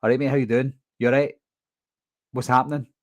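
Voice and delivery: fast, casual Glasgow chat; broad Glaswegian. Shown as a demonstration. Showing viewers his normal unfiltered Glasgow accent. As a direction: drop the careful diction, talk like a Glasgow local. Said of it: "if I was talking normally, I'd be talking like".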